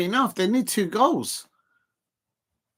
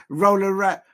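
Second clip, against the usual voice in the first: Roland Rat; 3 dB louder than usual. Retold or imitated. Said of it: "that sound like Roland Rat?".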